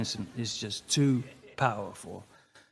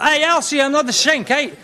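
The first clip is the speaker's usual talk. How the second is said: taunting goodbye; 12 semitones higher, 9 dB louder than usual. Acted. Taunting farewell to ex.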